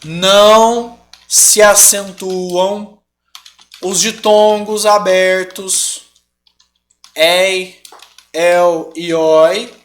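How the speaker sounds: drawn-out, word-by-word readout; deliberate teacher dictation, each word stretched; slow dictation. Shown as a demonstration. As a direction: dictate the rule slowly with long pauses between chunks. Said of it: "que se falar assim, ó".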